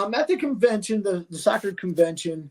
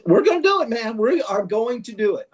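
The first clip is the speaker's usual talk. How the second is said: higher, louder burst of imitated determination; emphatic quoted promise, pitched up; retold insistence; 5 semitones higher, 3 dB louder than usual. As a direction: insist like a friend swearing it will happen. Retold friend insisting on plan.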